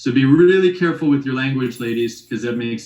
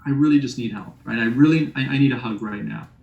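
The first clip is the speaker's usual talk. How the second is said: vulnerable ask; faster than usual. Shown as a demonstration. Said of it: "what a difference in communication".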